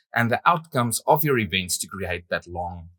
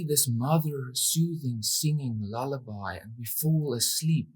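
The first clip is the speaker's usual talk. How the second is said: soft, lilting lullaby-like delivery; mock soothing; 2 semitones higher, 6 dB quieter than usual. Acts out soothing lullaby while describing it.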